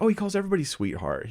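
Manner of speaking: high, fast mocking voice; squeaky sarcastic impression of a defender; mock naive insider. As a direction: parody a defensive staffer. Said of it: "He's like".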